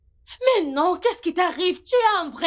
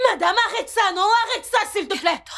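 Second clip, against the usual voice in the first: higher, with a laugh running through it; laughing protest; 6 semitones higher than usual. Acted. Tamara laughing as she tells Madame to stop. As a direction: push her away with an exasperated laugh.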